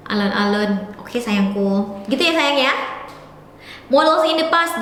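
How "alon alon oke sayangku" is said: slowing down, laughing. Real, not acted. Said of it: "aku akan coba pelan-pelan".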